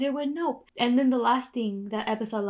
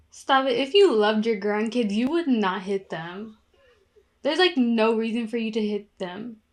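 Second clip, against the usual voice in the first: louder, real anger at the screen; angry scolding; 5 dB louder than usual. Real, not acted. Vlogger scolding the grandmother on screen, angry and loud. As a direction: tell her off like she can hear you.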